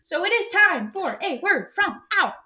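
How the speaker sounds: slow, high radio DJ announcement; disc jockey voice. Pretend. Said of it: "you sound like a disc jockey".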